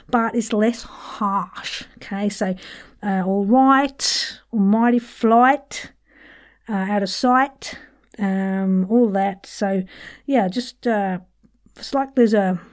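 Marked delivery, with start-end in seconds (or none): 3.3-7.8 RIGHT, FLIGHT, SIGHT with a slow "oi"-like I; softened West Country I in right, flight, sight; Antipodean long I. Shown as a demonstration. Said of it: "kind of like the West Country".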